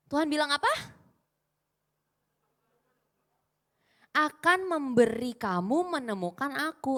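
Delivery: stressing "apa" and "Mendengarkan" with pauses; emphatic recitation. Shown as a demonstration. Preacher quizzes the crowd on God's promise, emphatic pauses. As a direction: drill the verse, pausing before each answer. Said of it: "Tuhan yang bilang loh".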